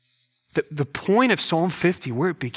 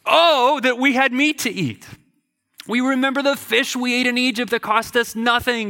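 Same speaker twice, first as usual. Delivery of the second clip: whiny Israelite; 5 semitones higher than usual. Retold or imitated. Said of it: "the people of Israel also wept".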